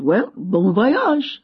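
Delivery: put-on slow, drawn-out French-accented farewell; old Frenchman wishing bon voyage, unhurried. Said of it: "He had a French accent".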